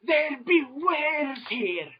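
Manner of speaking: high, slow mock-Irish cry of alarm; drawn-out, high Irish brogue; Irish accent. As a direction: announce it slowly in a hammed-up Irish accent. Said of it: "a wee bit of an Irish accent".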